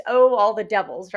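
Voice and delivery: loud acted oath; theatrical curse. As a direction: burst out cursing as a wronged husband. Requotes the monologue's curse.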